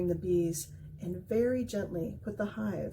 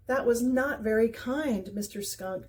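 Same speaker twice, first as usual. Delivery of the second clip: grumbling; 3 semitones higher, 4 dB louder than usual. Acted. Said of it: "Dex grumbled".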